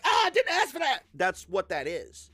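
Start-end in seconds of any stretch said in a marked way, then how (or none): 0.0-1.0 high, loud hammed-up protest; yelped, exaggerated objection; mock horror. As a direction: recoil out loud in mock shock. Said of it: "And I'm like".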